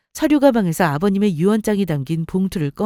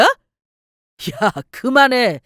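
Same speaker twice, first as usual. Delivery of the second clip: sharp, louder order to stop; angry outburst; 4 dB louder, much slower than usual. Acted. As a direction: cut her off angrily. Husband snaps at mocking wife. (화내며 버럭 끊는 말투)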